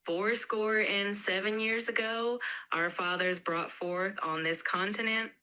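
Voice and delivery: slow, light Mississippi drawl; a mild Mississippi accent, read slowly. Acted. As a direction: drawl it out gently, Mississippi style. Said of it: "a bit of a Mississippi drawl".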